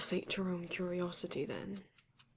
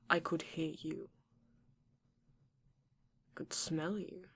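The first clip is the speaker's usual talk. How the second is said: a predator savouring how close it got; menacing whisper; 3 semitones lower than usual. Acted. Vampire whispering to the intruder that she heard and smelled him. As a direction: breathe it out, voiceless and close in the ear. Vampire boasts of keen senses.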